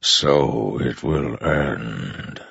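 very slow, immense godlike voice; Storm Father's voice. A narrator's reading. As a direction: let each word roll like distant thunder. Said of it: "the Storm Father said".

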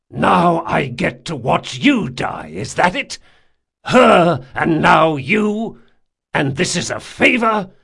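high, loud, slow anguished cry; anguished outburst. Acted. Jean grieving that he must watch Locke die, anguished cry. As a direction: grief tearing through the anger.

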